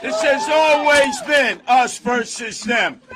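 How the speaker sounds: loud, shouted rally line; roaring rallying speech. Real, not acted. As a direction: belt it to the crowd. Rally speech, repeated louder.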